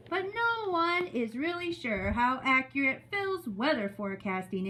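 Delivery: measured, expressive story reading; read-aloud to children. Acted. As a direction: read it to a class of young children. Reads story to second graders.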